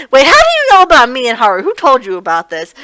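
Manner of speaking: loud, fast alarmed question; startled demand. Retold or imitated. Suzu, caught out by Toru, demands who told her, loud and alarmed. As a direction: caught off guard, demanding an answer.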